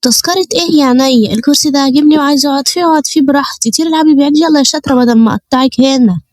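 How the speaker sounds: hammed-up insolent hajja; rude old woman. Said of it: "عرة ومفترية".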